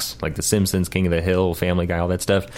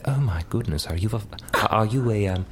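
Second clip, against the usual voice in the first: higher, softer British questioner; British accent; 4 semitones higher, 4 dB quieter than usual. Acted. Guest plays British small talk about rain, British accent. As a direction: put on a proper, higher British voice. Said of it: "there's the received pronunciation".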